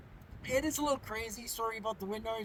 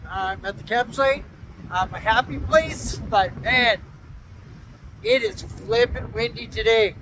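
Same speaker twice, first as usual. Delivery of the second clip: shouting over wind; 2 semitones higher, 17 dB louder than usual. Real, not acted. Outdoors in strong gusting wind.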